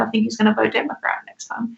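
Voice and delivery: half-whispered retold secret; confiding whisper. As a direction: imitate someone confiding, voice mostly dropped away. Retelling friend's confided prediction.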